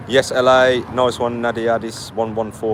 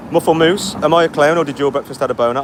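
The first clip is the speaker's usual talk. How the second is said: louder, faster, disbelieving reading of the comment; incredulous reread; 5 semitones higher, 4 dB louder than usual. Shown as a demonstration. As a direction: read it out again like you can't believe it. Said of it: "rereads the same chat comment".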